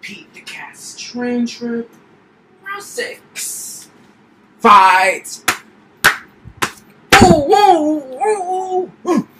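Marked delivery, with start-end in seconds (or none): 0.0-5.4 booming fighting game announcer. Pretend. Kid announces game rounds.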